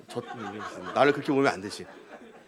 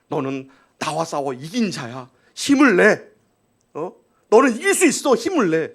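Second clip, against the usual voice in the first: encouraging. Acted. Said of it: "그게 하나님의 마음".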